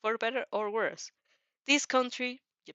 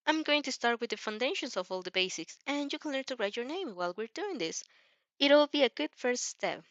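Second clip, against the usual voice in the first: put-on higher, eager boy explaining his phone; bright, helpful young hero showing off; Izuku voice; 5 semitones higher than usual. Izuku starting lesson.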